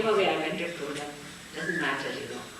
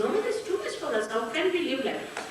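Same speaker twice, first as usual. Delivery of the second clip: quick, slightly higher imitated complaint; retold protest; 4 semitones higher, faster than usual. Americans refusing the rough living in India, mock protest. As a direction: rush through their objection, lightly acted.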